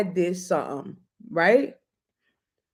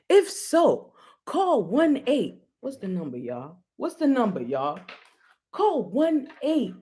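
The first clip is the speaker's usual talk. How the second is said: infomercial pitch; 4 semitones higher than usual. Pretend. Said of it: "like one of those commercials".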